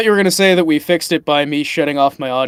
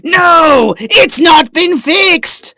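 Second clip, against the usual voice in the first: higher, louder villain rant; booming frost giant; 9 semitones higher, 3 dB louder, slower than usual. Acted. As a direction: rant like an outraged giant warlord. Villain complains about mic bleed.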